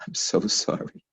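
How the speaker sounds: hushed, whispery remorse; whispered apology. Retold or imitated.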